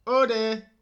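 high, loud dismay; hammed-up loud alarm; alarmed owl. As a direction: cry it out in mock fright.

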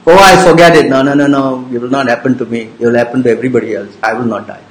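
lightly hammed-up denial, fast; imitating a fool. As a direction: brush off death like a careless fool. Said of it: "A fool thinks like that".

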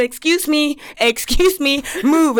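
retold impatient demand to get through; pushy impatience. Traveler pushing past a queue, impatient.

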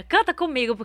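high, hearty sing-along shout; rousing the crowd. Retold or imitated. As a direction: call out to a whole audience. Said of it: "puxei a galera".

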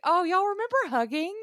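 high, playfully wistful; mock nostalgia. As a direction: act out exaggerated longing for old times.

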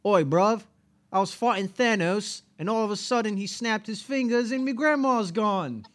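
high, loud British street caricature; mock British accent. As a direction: tell the tale as a hammed-up Brit. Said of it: "Oh, British people".

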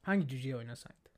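a sudden hushed whisper. Real, not acted. Friend asks which dwarf in a whisper. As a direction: drop to a whisper to ask the question. Friends chatting about film roles.

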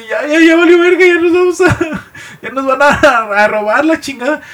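hammed-up falsetto fear; mock panic. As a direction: babble it like the robbers are here. Expecting a robbery, panicking.

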